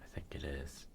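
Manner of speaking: unvoiced whisper, said aside. Real, not acted. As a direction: breathe the words out. Muttering to himself at the table.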